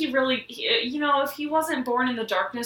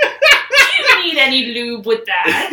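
bad Bane impression; 5 semitones higher, 10 dB louder than usual. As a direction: ham it up through a laugh. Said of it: "That's my bad Bane impression".

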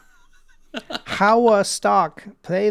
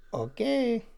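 higher, nasal-free cartoon villain "Okay."; Wario voice; 9 semitones higher, 5 dB quieter than usual. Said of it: "I made it sound like Wario".

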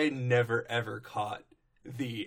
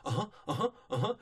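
raised, panting dog huffs; huffing like a dog; 4 semitones higher, much faster than usual. Retold or imitated. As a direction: huff it out like an eager dog. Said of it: "he's huffing like a dog".

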